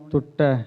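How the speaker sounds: ਟੁੱਟੈ with one tight doubled t only; single stress. Shown as a demonstration. Teacher corrects students on ਟੁੱਟੈ. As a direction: say ਟੁੱਟੈ with a single geminate, not two. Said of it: "ਦੋਵੇਂ ਟੈਂਕੇ ਨਹੀਂ ਲਾਉਣੇ".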